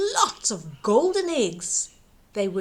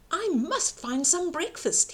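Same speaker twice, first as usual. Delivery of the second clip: put-on hungry boy thinking; 6 semitones higher than usual. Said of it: "he thought".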